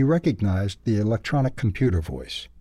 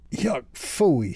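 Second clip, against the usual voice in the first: high, odd critter voice spitting out smoke; spitting in disgust; 6 semitones higher than usual. A narrator's reading. Ralph coughing out bus smoke, disgusted. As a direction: spit the words out in disgust. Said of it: "he spit".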